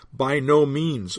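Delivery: "by no means" drawn out slowly, each word stressed; emphatic, slow. Shown as a demonstration. Preacher stressing the Greek double negative, slow and emphatic. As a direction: lean hard on "by no means". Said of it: "we may translate emphatically as".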